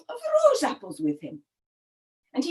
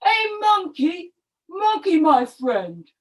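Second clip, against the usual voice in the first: mild storybook call, pitched higher; higher, drawn-out friendly call; 3 semitones higher than usual. Acted. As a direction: hail a friend up a tree. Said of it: "he called up to his friend".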